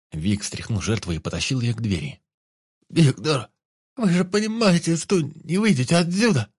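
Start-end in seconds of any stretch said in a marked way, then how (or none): 2.9-6.5 high, loud whiny pleading; nasal whine. A narrator's reading. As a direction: whine at him, a touch of nasal. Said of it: "гундосила Росс". (гнусаво и жалобно)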